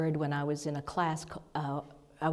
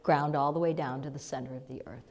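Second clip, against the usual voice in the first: guided instruction; 3 semitones lower than usual. Shown as a demonstration. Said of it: "So just say to your first chakra".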